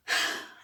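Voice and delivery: heavy exhale before going on; weary sigh. Real, not acted. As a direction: let out a big sigh. Winding down after being fed up.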